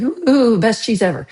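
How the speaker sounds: imitated gushing, starting high and loud; mock awe. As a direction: ooh over it like hammed-up advertising. Mimics hype for imported cheese.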